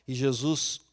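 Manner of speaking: ordinary talk, nothing marked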